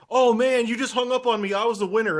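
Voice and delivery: high, plaintive mock caller voice; disappointed caller. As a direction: protest like a cheated contest winner. Acts out disappointed caller calling back.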